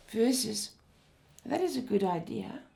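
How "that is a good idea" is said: lukewarm and unconvinced, falling off at the end; hesitant tone. Shown as a demonstration. Lecturer showing students the unconvinced version, hesitant and lukewarm. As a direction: say it as if you doubt the idea. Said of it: "in a hesitant tone".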